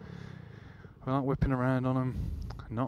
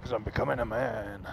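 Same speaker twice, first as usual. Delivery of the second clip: mock teen voice breaking; cracking voice. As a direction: crack like a teenage boy. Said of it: "my voice is breaking".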